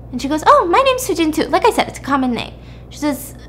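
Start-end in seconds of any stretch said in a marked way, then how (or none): 0.5-1.5 pleasantly surprised, pitched higher; light delighted recognition, higher pitch; mildly surprised. Retold or imitated. Woman learns the girl shares her name, mildly surprised.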